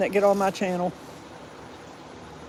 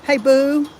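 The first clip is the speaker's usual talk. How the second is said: higher, louder call to a pet; calling the dog; 5 semitones higher, 5 dB louder than usual. Real, not acted. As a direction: coax the dog to answer. Calling her dog to talk.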